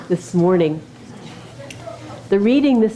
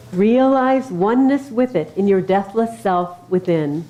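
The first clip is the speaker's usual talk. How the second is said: scripture reading. Acted. Reads Easter scripture to congregation.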